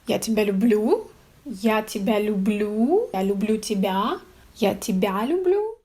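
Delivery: rising question tune on each «Я тебя люблю»; question intonation. Shown as a demonstration. Teacher showing viewers a question by rising intonation. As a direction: ask «Я тебя люблю» with the pitch rising at the end. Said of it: "I will just change my inflection".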